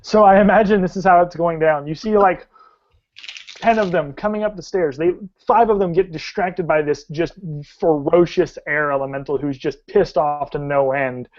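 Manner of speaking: dramatic tabletop storytelling; game master narration. Acted. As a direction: paint the action vividly, stretching key verbs.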